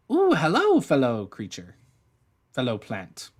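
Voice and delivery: high squeaky little plant. Acted. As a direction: chirp it out like a tiny flower. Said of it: "in a really high-pitched, squeaky voice".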